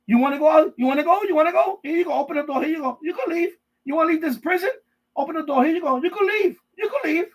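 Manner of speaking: mock-sweet jailer taunt; taunting guard. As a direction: dangle the open door like a cruel jailer. Taunting moon prisoners at open door.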